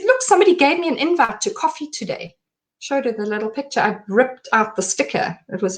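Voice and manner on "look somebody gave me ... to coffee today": frantic babbling. Retold or imitated. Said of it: "Nothing I was saying to her was making sense".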